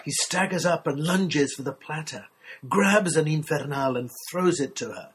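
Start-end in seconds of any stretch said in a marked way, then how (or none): 3.3-4.0 put-on Infernal accented on its last syllable, "-NAL"; stress on final syllable. A narrator's reading. Narrator as he throws her the pepper, Infernal stressed on the final syllable. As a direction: land on the end of Infernal, Spanish-style. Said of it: "Chili mavens stress the final syllable".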